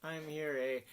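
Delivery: Canadian "I'm here, eh?" with a tag eh; Ottawa-style Canadian accent. Real, not acted. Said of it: "I slip back into my Canadian accent".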